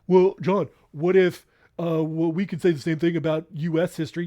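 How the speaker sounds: lightly voiced objector, interjecting hesitantly; hesitant imagined challenge to himself; voice in his head. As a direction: play a hint of a doubting inner voice. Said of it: "voice in my head".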